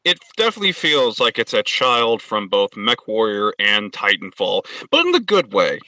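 muffled voice through a helmet visor; inside a helmet. Pretend. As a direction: talk like you're sealed in a mech helmet. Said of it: "altered his voice in some way to make it sound like he's wearing a fucking helmet".

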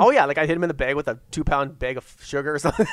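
laughing through the words. Real, not acted. Friend joking about the sugar bag, laughing. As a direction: chuckle while picturing it.

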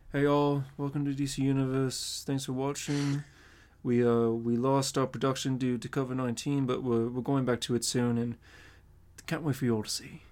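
lightly voiced Robert Pattinson; Pattinson impression. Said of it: "That was a solid Pattinson".

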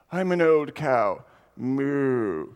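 British cow. Pretend. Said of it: "I guess I'm a British cow now".

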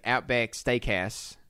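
slow ad-style Aussie accent; attempted Australian accent. Shown as a demonstration. Host showing the one phrase he can do, Aussie accent. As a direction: stretch it out in mock Australian. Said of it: "I can say this, and I can be like".

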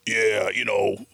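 lightly voiced Vinny Pastore chatter; a hint of a gruff buddy calling out; familiar voice. Vinny Pastore passing by, lightly voiced chatter. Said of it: "I hear a familiar voice".

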